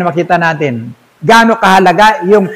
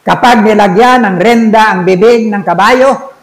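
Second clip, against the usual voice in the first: scripture reading; 2 semitones higher than usual. Acted. Reads James 3 aloud.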